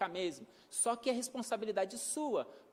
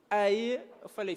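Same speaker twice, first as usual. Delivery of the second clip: ordinary talk, nothing marked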